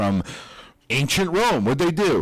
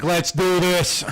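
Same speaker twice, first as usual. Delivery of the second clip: eager; 7 semitones higher, much slower than usual. Pretend. Eager volunteer quote.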